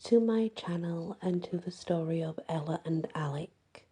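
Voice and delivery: talking around a swollen cheek. Real, not acted. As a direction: speak as if one cheek is puffed up. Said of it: "If I sound different, I have a swollen cheek".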